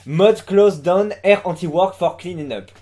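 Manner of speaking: slow, deliberate English with a thick French accent; basic French accent. Shown as a demonstration. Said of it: "je tente l'accent français de base". (accent français de base en anglais)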